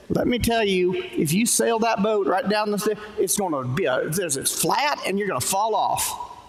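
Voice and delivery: mock a Southern know-it-all in a light Southern accent. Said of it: "I don't know why I got Southern".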